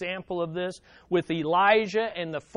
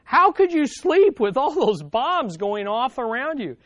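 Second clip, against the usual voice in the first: amazed question; 4 semitones higher, 5 dB louder than usual. Retold or imitated. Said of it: "they asked her".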